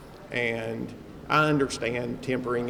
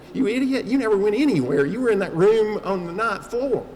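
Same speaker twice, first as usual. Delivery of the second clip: mock self-scolding; 9 semitones higher, 7 dB louder than usual. Inner voice scolding himself.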